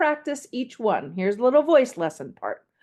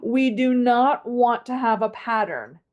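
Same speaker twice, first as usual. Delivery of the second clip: ordinary delivery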